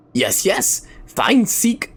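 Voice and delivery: half-hearted ratman squeak; a tentative rat-creature chatter; Skaven voice. Shown as a demonstration. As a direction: try a squeaky rat voice and give up. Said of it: "a weird accent to them".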